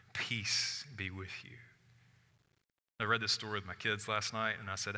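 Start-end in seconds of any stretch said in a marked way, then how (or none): 0.1-1.6 calm blessing. Acted. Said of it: "And he said to them".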